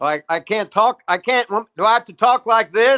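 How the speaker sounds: loud, high, near-screaming speech. Answering a request to speak up on a call: talking much louder. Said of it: "I started screaming".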